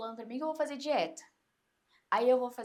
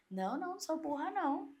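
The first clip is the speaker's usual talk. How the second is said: indignant retort; 5 semitones higher than usual. Retold or imitated. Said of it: "a vozinha já vem".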